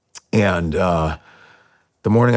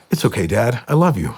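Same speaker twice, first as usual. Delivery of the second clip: higher-pitched imitation of a loving kid; lightly voiced son reassuring dad; forgiving child; 4 semitones higher than usual. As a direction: lift the pitch, offer quick forgiveness. Voices son forgiving him at once.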